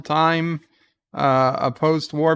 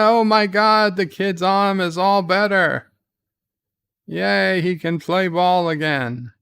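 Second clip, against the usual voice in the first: raised pitch, excited mock cheer; mock amazement; 4 semitones higher than usual. Recapping the kid's healed arm for viewers, mock amazed. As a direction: act out an exaggerated, delighted marvel.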